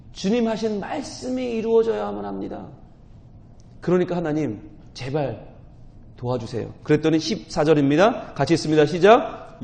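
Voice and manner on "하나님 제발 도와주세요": quiet plea. Acted. Moses' plea voiced softly.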